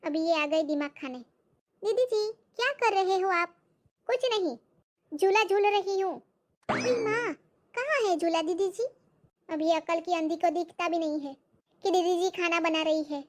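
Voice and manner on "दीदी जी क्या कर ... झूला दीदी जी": put-on higher, chirpy servant girl; high, wide-eyed maid; naive maid voice. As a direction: play the simple-minded maid. Maid chats with the lady.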